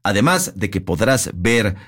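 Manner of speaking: measured announcer delivery with punched key words; radio ad read. Real, not acted. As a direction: sell it like a sponsor spot. Reads the scripted furniture ad.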